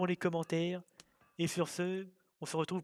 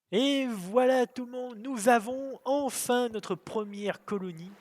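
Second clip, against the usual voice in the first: excited; 5 semitones higher, 5 dB louder than usual. Real, not acted. Celebrating first colony.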